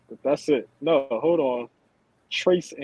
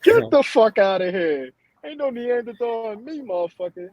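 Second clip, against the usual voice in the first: high, loud mock outrage; indignant yell; 9 semitones higher, 6 dB louder than usual. Real, not acted. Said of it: "denying Neanderthal result, laughing".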